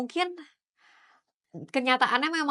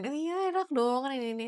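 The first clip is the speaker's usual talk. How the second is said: higher-pitched mock envy; teasing; 5 semitones higher, faster than usual. Retelling how she ribbed a friend, teasing. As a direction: lightly tease in a raised pitch. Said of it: "waktu itu gue pernah ledekin".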